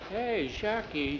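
slow, high-pitched wonder; amazed. Acted. Jose sees the rocker Jackie fixed, amazed. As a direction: draw out the name in astonishment.

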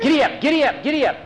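high, urgent giddy up; panicked urging of the horses. Acted. Mister Waverly hurries his horses away, high urgent cry. Fleeing man urges horses.

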